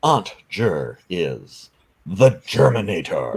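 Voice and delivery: slow, dramatic trailer narrator; movie trailer voice. Pretend. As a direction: announce it like a film trailer. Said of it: "read it in the movie voice".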